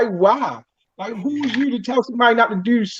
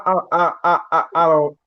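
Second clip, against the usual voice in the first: stumbling laugh; 6 semitones lower than usual. Real, not acted. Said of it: "Stumbling over his words".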